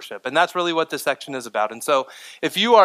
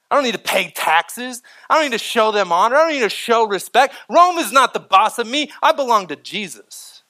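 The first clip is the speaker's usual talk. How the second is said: imitated protest, higher-pitched and insistent; indignant defiance; 6 semitones higher, 4 dB louder than usual. Imagined Roman Christians refusing to obey Rome, defiant. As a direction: rattle off refusals, pitch raised, pushing back. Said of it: "with the mindset of Rome".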